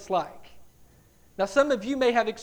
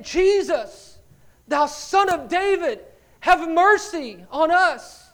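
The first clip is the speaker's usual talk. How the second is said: drawn-out, higher-pitched plea; mild mock crying out; 4 semitones higher, slower than usual. Preacher voicing two blind men following Jesus, mild crying out. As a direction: imitate a cry for mercy without screaming. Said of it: "They were screaming out".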